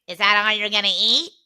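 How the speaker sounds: quick, lightly voiced grandma question; a hint of a pushy grandma, fast; typical Faye. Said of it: "in typical Faye".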